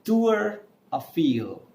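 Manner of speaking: slow "Tour Eiffel", "too-er a-FEEL" with plain r; neutral French pronunciation. Shown as a demonstration. Teacher giving the tower's French name, neutral pronunciation. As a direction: say "Tour Eiffel" slowly, stretching each word. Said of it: "name of Eiffel Tower is".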